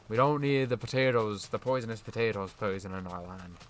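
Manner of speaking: put-on loud, awful Irish accent. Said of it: "speak in an Irish accent".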